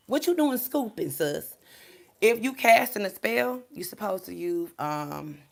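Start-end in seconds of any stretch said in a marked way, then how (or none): 0.1-1.6 high incredulous mock question; mock disbelief. Mocking a woman scooping graveyard dirt, high disbelief.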